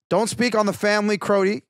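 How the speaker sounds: lightly voiced Toronto accent. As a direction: rap lines with a hint of Toronto slang. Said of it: "in the whole Toronto accent".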